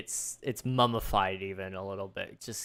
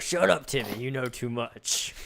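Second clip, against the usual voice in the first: sinister dad. Acted.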